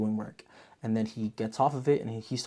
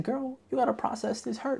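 mock sassy advice; 13 semitones higher than usual. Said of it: "literally what my next note says".

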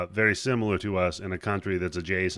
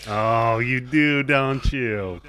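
loud, raised-pitch dawning realisation; surprised realisation; 3 semitones higher, 6 dB louder, much slower than usual. Real, not acted. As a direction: call it out as it suddenly clicks. Learns Australia has the Queen too.

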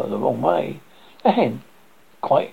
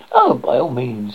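dismissive hen; 4 dB louder than usual. Acted. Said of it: "said the hen".

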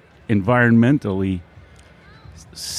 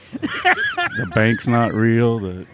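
laughing; much slower than usual. Real, not acted. Laughing at the fake town.

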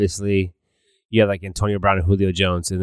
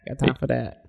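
viral meme voice; 5 semitones higher, 5 dB quieter than usual. Retold or imitated. Quoting viral meme catchphrase.

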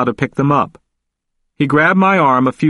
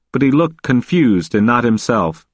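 plain reading voice

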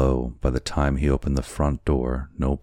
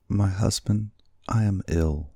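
wife voice; 6 semitones higher than usual. A narrator's reading. Wife pleads she is ill.

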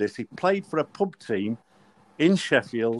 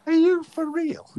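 very high incredulous squeak. Retold or imitated. Captain asked his name by referee, incredulous. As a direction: voice shooting up in mock disbelief.

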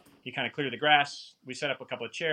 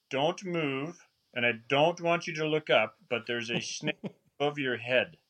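put-on South African accent. Guide warning hunter about a snake, imitated South African accent. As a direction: warn carefully in a rough South African accent. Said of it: "a South African accent".

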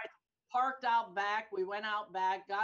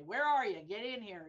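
louder mock summons to a missing agent; retold demanding call; 6 dB louder than usual. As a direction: imitate ordering someone into the office. Retold scolding call to absent agent.

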